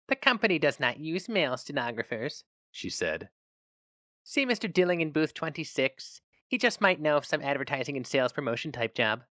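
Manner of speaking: a sober receptionist unsure of him; doubtful receptionist. Acted. Receptionist voiced by narrator.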